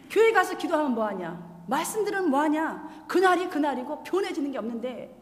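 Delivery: 살짝 화난 남편 흉내; retold shouting husband. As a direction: mildly voice the angry husband. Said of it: "이러면서 막 소리를 치는 거예요".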